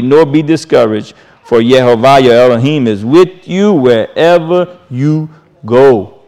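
solemn preacher's scripture read. Acted. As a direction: proclaim the verse like a charge from the pulpit.

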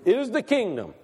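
"is" pressed as a certainty; stress on IS. Shown as a demonstration. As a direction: lean firmly on IS. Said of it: "He's emphatic about what he says".

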